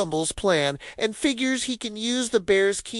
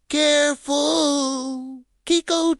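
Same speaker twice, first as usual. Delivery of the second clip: amused warning; 7 semitones higher, slower than usual. Acted. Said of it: "Tommy warns, but there's a hint of a smile".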